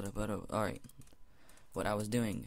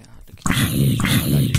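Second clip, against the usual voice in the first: whisper; 7 semitones lower, 14 dB louder than usual. Acted. Whispering while sneaking on monster.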